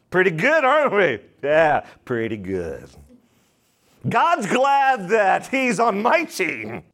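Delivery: self-satisfied, pleased with ourselves; mock smug pride. Shown as a demonstration. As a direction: pat yourself on the back, smug. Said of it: "the sauce is boss".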